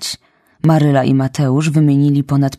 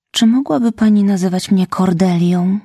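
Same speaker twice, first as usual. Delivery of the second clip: pleading; 5 semitones higher than usual. Acted. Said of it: "poprosiła błagalnie".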